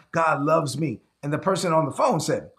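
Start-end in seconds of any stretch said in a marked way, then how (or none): 0.1-1.0 inmate calling it out with fresh joy; a mild, grateful outcry; crying out to God. Retold or imitated. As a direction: grown man in a jumpsuit finally believing it. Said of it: "they're just crying out to God".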